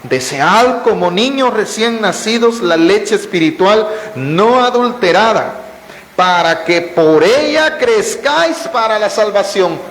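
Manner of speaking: slow, deliberate reading of the verse; unhurried solemn scripture reading. Shown as a demonstration. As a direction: read the verse slowly, weighing each word. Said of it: "lo que dice el versículo dos".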